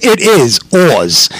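slow New York-accented introduction; drawn-out guest intro, slight New York accent; New York spin. Real, not acted. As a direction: announce it with a New York twist. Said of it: "I was a little New York spin on there".

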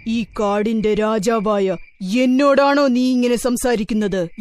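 lightly voiced stern lion; mildly indignant lion warning; angry lion king. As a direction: rebuke the bee with a touch of royal anger. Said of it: "ദേഷ്യം സഹിക്കവയ്യാതെയായി".

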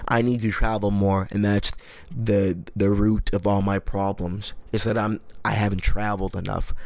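mild mock pretentious voice; pretentious quote. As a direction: parody a self-important traveler. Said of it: "it is pretentious to say".

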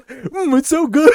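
high, loud, slow mock savoring; savoring food. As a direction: relish it like a tasty treat. Mock tasting rice sausage.

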